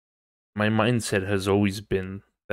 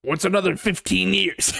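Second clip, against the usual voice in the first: retold villain line; 9 semitones higher than usual. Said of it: "he's all like".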